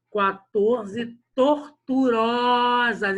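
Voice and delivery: QUATORZE TORTUROSAS slow and loud, the Ó held long; stress on the Ó. Shown as a demonstration. Teacher pointing out the tonic vowel, QUATORZE TORTUROSAS with a long, loud Ó. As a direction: stretch the Ó of TORTUROSAS on a high note. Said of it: "esse ó tônico".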